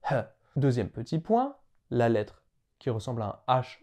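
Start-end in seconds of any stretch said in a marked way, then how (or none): 0.1-0.2 "He" as a puff of breathed H; H aspiré. Shown as a demonstration. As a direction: breathe out the H of "He", as in hungry. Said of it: "comme en anglais hungry". (« He » avec un H soufflé)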